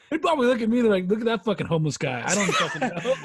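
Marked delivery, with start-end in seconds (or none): 1.1-3.1 laughing. Retold or imitated. Laughing while quoting strangers.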